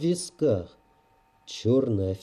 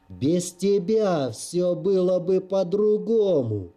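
anguished shout; 4 semitones higher than usual. Acted. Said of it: "отчаянный, полный тоски и боли крик".

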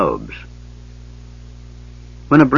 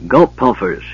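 gully dwarf mutter; 3 semitones higher than usual. Acted. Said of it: "she muttered".

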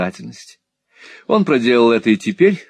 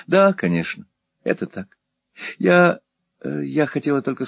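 softened tone; 5 semitones higher than usual. A narrator's reading. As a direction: concede mildly. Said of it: "ответила Кэт более мягким тоном".

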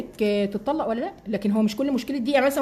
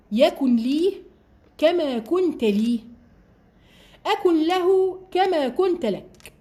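slow solemn recitation; 5 semitones higher, much slower than usual. Acted. Quoting God's words to David.

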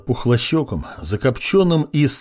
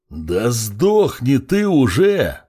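roaring; much slower than usual. Acted. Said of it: "взревел Бойчин".

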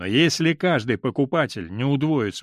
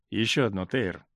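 softer, lower half-voice; under his breath; 5 semitones lower, 5 dB quieter than usual. A narrator's reading. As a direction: say it low, just for him. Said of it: "сказал Дик вполголоса".

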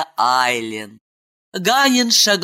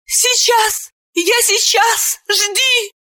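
much higher, anxious pleading; helpless babble; slower than usual. Acted. Ailen in labour calling to Ganin, much higher and helpless. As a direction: stammer it out helplessly. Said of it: "Беспомощный лепет Айлен".

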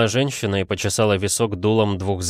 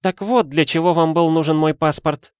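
high-pitched indignant lady; flaring indignation; 8 semitones higher, 4 dB louder than usual. A narrator's reading. Madame realising why he wanted her passport, indignant. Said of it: "вспыхнула женщина".

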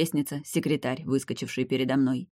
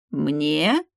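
gasp; 4 dB louder than usual. A narrator's reading. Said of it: "ахнул он".

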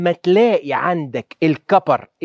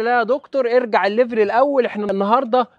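a slightly higher, mock-pleading student voice; 4 semitones higher than usual. Students asking the doctor to go back a level, mock pleading. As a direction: play a student begging the doctor to go easier. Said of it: "ولو لقيتوه صعب قولوا لي".

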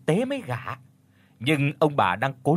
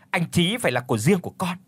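firm, decisive; 5 semitones higher, faster than usual. Acted. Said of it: "nói với cái giọng dứt khoát".

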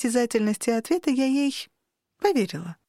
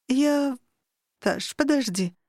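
tired sigh; 4 semitones higher, slower than usual. Acted. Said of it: "устало вздохнула она".

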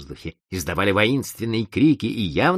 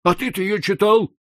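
distrustful; 14 semitones higher, 4 dB louder than usual. Acted. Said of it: "недоверчиво осведомился Осипов".

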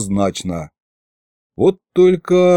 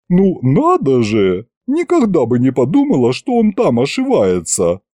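put-on old witch, surprised.

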